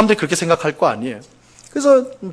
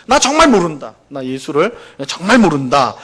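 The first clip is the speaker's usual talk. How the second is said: mildly acted insistence on "정말 모른다"; emphatic denial. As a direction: lean on "정말" while denying. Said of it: "강조하면서 부정을 한 거예요".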